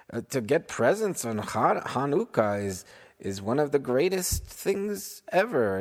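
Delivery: incredulous protest. Acted. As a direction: marvel at how anyone could be so ungrateful. Harry incredulous at ungrateful boy.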